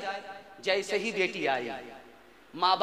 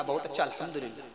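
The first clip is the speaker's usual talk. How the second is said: quick happy reply; 8 semitones lower, 8 dB quieter, much faster than usual. Acted. Bride answers happily.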